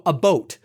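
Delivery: "a boat" for about, with a rounded O; rounded Newfie vowel. Shown as a demonstration. Showing a Newfoundland politician's vowels, "a boat" with rounded O. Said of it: "rounded, very much".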